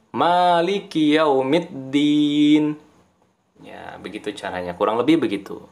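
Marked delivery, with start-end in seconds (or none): 0.1-2.8 chanted Quran recitation, vowels kept short; short qasar recitation. Shown as a demonstration.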